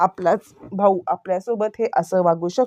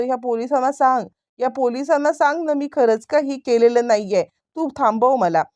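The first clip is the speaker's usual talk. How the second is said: urgent plea, pitched higher; panicky pleading; 6 semitones higher than usual. Retold or imitated. Arrested man begs brother to tell the police, mildly panicky pleading. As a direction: imitate a rattled man protesting innocence. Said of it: "यावरती तो आता बिथरलाय".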